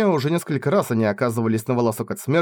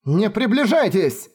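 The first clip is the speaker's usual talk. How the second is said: yelled warning; 9 semitones higher, slower than usual. Acted. Wounded Naya ordering her sisters to stay back, yelling. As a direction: hold them off with your voice. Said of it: "заорала Ная".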